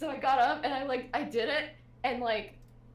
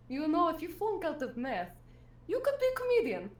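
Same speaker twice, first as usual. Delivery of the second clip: Russian teacher; 4 semitones higher than usual. Retold or imitated. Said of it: "leans into me and goes".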